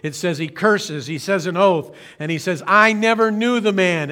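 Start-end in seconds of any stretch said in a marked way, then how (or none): 2.7-4.1 louder mock outburst; blowing his top. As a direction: snap it out, hammed-up temper. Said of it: "Peter kind of blows his top".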